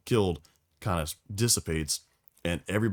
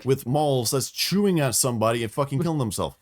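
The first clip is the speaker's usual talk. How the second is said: high, loud appalled outburst; high, loud shocked rant; stunned horror; 5 semitones higher, 3 dB louder than usual. Retold or imitated. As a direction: blurt it out, horrified at the beast. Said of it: "you're like".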